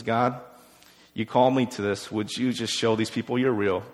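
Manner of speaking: low, soft, understated retold prayer; quiet prayer. Elijah on his knees asking God to show he's real, quietly prayerful. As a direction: plead simply and softly, as if praying alone.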